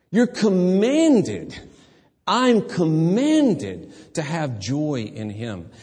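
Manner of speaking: slow, loud, high stress on commanded; slow emphatic. Real, not acted. Preacher driving home the command, slow and loud. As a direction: drag out commanded, weighty. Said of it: "preacher stressing command".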